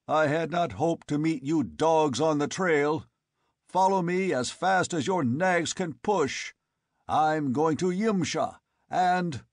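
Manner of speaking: loud, high calling down. A narrator's reading. Conan calling down to the tribesmen below. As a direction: shout it down the canyon.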